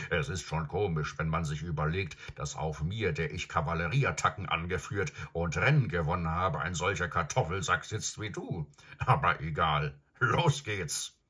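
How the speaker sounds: stolzes Pferd, leicht spöttisch, etwas lauter; Pferdestimme. Acted. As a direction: ein Kavalleriepferd, das über den Reiter spottet. Pferd spricht mit Shasta. (Pferd neckt Shasta beim Aufsteigen)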